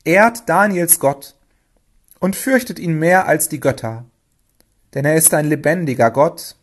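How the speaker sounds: measured, emphatic proclamation; royal decree. A narrator's reading. King issuing a command to all his realm, solemnly proclaiming. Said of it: "gab im ganzen Reich den Befehl aus".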